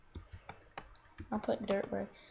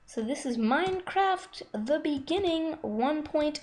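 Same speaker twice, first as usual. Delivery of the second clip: excited; 6 semitones higher, 4 dB louder than usual. Real, not acted. Excited announcing new game version.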